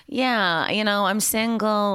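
slow, lightly nasal character line; off-the-cuff, half-in-character nasal voice; the Nanny. Acted. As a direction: stretch it out as a sitcom nanny. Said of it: "she talks like that".

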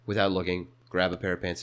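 low, understated name-drop; stoic, in character. Retold or imitated. Teen walking away without looking, stoic low voice. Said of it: "I had to get into character".

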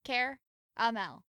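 Caramel drawn out as CARE... uh-mel; pronounced as spelled. Shown as a demonstration. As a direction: slowly split Caramel into CARE, then uh-mel. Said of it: "That's how it's spelled".

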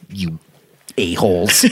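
laughing yell; laughing shout. Real, not acted. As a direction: blurt it through a laugh. Joking insult with laugh.

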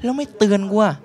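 normal talking voice

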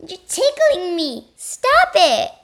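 giggling through the words; laughing. Acted. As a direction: squeal with ticklish laughter. Bob being tickled, laughing.

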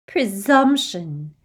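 slow cruel echo; mocking echo. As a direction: echo it with scorn. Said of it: "echoed the Riddle Hermione".

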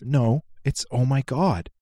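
put-on slow, drawn-out little kid insisting on "oh my God"; stubborn toddler, stretched slow. Dad imitating his son insisting on the word God. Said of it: "He goes".

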